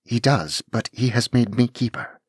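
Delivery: put-on formal young lady. Anne formally greeting the dragon Laird Kellynch.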